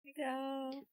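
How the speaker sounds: squeaky cartoon offering voice; silly high voice. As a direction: hand it over in a squeaky voice. Showing cover, silly voice.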